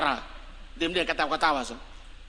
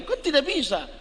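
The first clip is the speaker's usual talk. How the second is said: booming voice; 6 semitones higher than usual. Shown as a demonstration. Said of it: "Itu artinya ini suara menggelegar".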